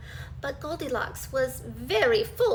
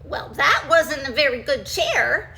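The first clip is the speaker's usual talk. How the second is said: grumpy; 6 dB louder than usual. Acted. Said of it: "she said grumpily".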